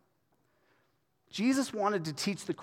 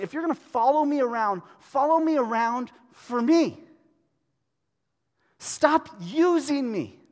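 higher, louder plea; raised, earnest plea; pleading rebuke; 7 semitones higher, 6 dB louder than usual. Acted. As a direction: plead with them to stop using him. Voicing Jesus' rebuke.

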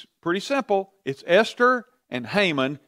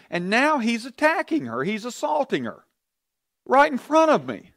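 outraged king; 6 semitones higher than usual. Retold or imitated. King's rant continued.

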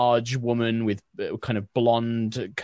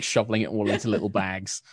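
ordinary delivery

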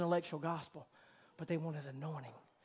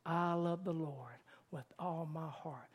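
slow, softer, reverent confession; 5 dB quieter, slower than usual. Retold or imitated. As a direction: say it gently with reverence. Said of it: "Those words spoken softly but in reverence".

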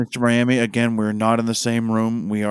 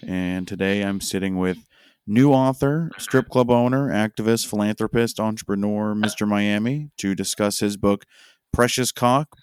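bright on-air host welcome; radio host intro. Acted. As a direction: announce the show and guest.

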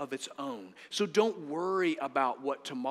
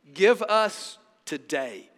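slow, spaced words landing on "today"; stress on today; 5 dB louder, slower than usual. Shown as a demonstration. Preacher quoting Jesus' prayer, slow stress on "today". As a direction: draw out "today" with weight. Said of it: "Underline the word today".

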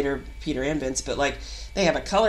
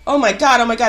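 freaking out; 5 semitones higher, 7 dB louder, faster than usual. Retold or imitated. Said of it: "I was like".

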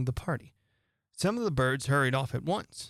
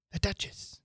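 muttering; 6 semitones higher, 4 dB quieter than usual. A narrator's reading. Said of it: "muttering to herself".

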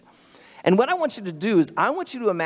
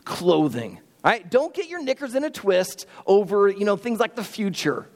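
Jesus reassuring; 3 semitones higher than usual. Retold or imitated. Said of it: "He's gonna say".

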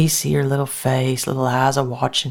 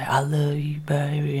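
quiet and pathetic; 3 dB quieter than usual. Acted. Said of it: "he's quiet and kinda pathetic".

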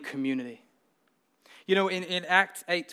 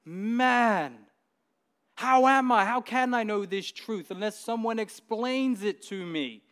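exasperated eunuch; 4 semitones higher than usual. Retold or imitated. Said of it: "he's like".

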